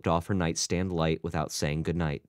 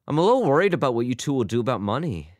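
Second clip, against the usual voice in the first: higher, quick, mildly worried; concerned; 6 semitones higher, 4 dB louder, faster than usual. A narrator's reading. Albert to his wife about money, concerned. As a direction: voice a touch of worry, fast and louder.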